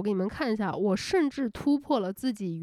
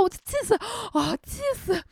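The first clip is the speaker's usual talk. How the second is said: a hammed-up furious outburst; 11 semitones higher than usual.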